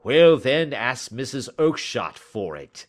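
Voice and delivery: irate salesman brushing off a pest; angry retort. A narrator's reading. Salesman sending the little man elsewhere, angrily.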